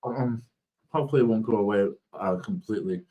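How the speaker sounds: speech thick from a swollen tongue; talking through a swollen, sore mouth. Real, not acted. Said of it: "My, my tongue is swollen".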